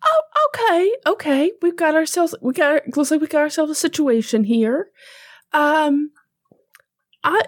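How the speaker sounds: chipper Southern voice. Acted. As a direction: introduce yourself, chipper. Tammy Jo meets Zelda.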